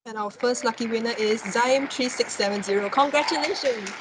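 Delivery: hyped giveaway announcement. Real, not acted. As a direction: announce the winner like a game show host. Lucky draw winner reveal.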